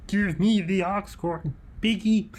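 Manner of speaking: high, slow, swooping demand; put-on silly voice. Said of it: "I didn't like that voice".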